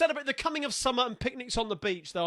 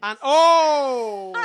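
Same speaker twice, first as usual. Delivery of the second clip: laughing; 4 semitones higher, 10 dB louder than usual. Real, not acted. Laughs while confessing.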